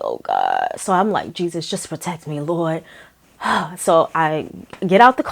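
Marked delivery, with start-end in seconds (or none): 0.0-0.7 much lower, sinking dread; mock dread. Scared thought at the creepy house. 1.3-2.8 softer, hushed little prayer; mock prayer. Prays before leaving the car.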